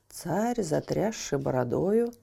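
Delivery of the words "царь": ordinary delivery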